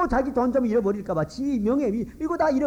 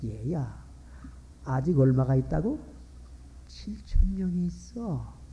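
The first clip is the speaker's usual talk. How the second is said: gentle answer from God; 5 semitones lower than usual. Acted.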